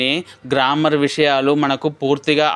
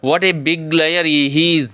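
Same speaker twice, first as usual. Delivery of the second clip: exclaiming in disbelief; much slower than usual. Shown as a demonstration. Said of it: "క్రింద ఇచ్చిన రెండు సెంటెన్స్ను గమనించండి".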